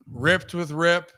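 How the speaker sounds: drawn out like a show title; slow announcer hype. Pretend. Announces the segment name, slow.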